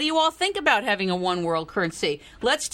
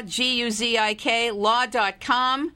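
spelling it out; slower than usual. Shown as a demonstration. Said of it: "you can go to Guzik Law".

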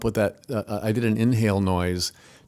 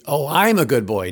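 higher, louder voiced reply of a proud dog; dog talking back; 6 semitones higher, 6 dB louder than usual. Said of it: "the dog doesn't know how to say".

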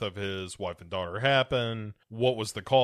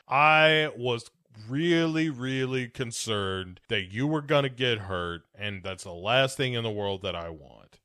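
fake-sincere do-over, slow and louder; slower, louder sincere retake. Shown as a demonstration. Suitor retries his line to the princess, slow mock-sincere. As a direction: lean in, overly earnest and slow. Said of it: "let me say it again".

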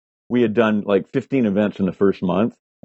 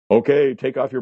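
booming voice; 4 semitones higher than usual. Retold or imitated. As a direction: call it out like an unseen announcer. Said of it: "A booming voice came out and said".

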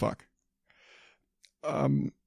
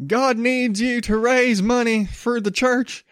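high, hammed-up preacher pitch begging for money; mock televangelist; 9 semitones higher than usual. Comedian mocking a televangelist asking for church money, high hammed-up preacher voice. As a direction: ham up a greedy televangelist, pitched way up. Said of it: "Is going out there saying".

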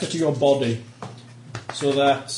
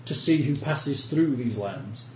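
a hint of a haughty lord giving orders; lightly voiced stern noble. NPC noble threatens arrest.

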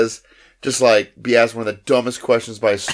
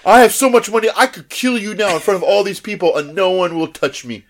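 menacing rich boss; 5 semitones higher than usual. Retold or imitated. Rich exec threatening.

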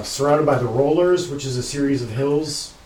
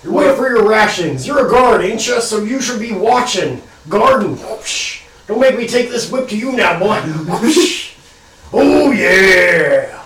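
put-on gruff old caravan boss; 6 semitones higher, 5 dB louder than usual. Caravan owner scolds the guard.

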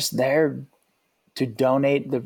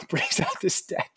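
laughing while talking; 5 semitones higher, 4 dB quieter than usual. Real, not acted. Amused retelling, laugh heard.

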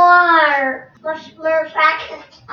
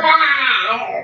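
bear roar; 3 semitones lower than usual. Pretend. Toddler answers that the shirt shows a bear.

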